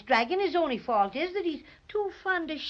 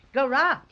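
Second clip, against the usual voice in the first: mock ferocious growl. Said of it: "Am I ferocious?".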